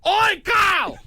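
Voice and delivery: high-pitched comic holler; hammed-up yell for someone's attention; mock calling out. Joins in the mock Carl yells.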